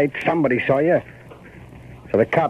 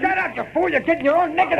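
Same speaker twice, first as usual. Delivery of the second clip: angry shout; faster than usual. Acted. Killer silences accomplice.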